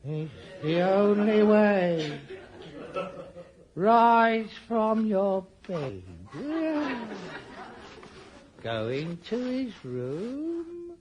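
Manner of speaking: eerie hypnotic command. Acted. Hypnotic inner voice guiding him to smother his father. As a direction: coax him step by step, slowly.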